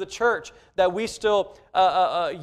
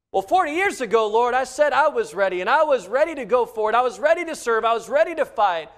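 eager Moses; 4 semitones higher, 3 dB louder, faster than usual. Acted. Moses answering God, voiced.

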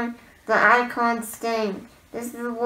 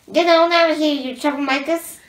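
Wild West shout; 4 semitones higher, 7 dB louder than usual. Acted. Wild West character shooing people.

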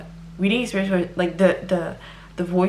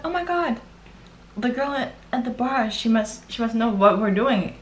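mock embarrassed whisper; 4 semitones higher than usual. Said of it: "I was just like".

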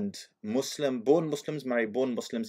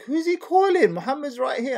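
confused; 13 semitones higher, 6 dB louder than usual. Retold or imitated. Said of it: "I'm like".

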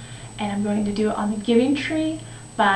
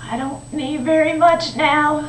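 put-on old man; 2 semitones higher, 4 dB louder than usual. The aged boy needs little now, elderly voice. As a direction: speak as a worn-out old man.

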